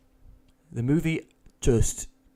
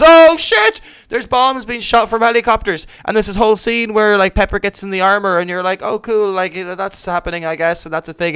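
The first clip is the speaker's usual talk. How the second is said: much higher and louder, rushing with excitement; carried away by the big action scene; excited retelling; 7 semitones higher, 8 dB louder than usual. Real, not acted. Hyping up the helicopter attack to friends, loud and excited.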